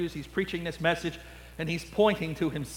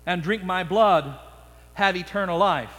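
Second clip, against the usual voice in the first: solemn scripture voice. Acted. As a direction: let the last words sink to a hush. Jesus quote.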